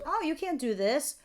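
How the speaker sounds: a hint of nagging doubters; naysayers. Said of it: "here's all your naysayers".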